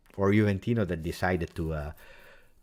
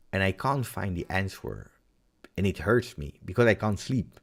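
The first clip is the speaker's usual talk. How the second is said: ordinary delivery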